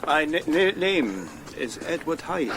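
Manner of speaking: stuttering on the first sounds; stammer. Acted. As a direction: repeat the opening consonant, stuck. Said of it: "I know that stammer".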